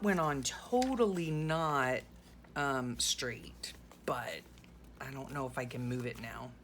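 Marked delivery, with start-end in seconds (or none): none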